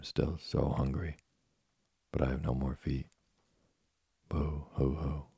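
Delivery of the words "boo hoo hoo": boo hoo sobbing. A narrator's reading. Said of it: "began to cry and scream so loudly".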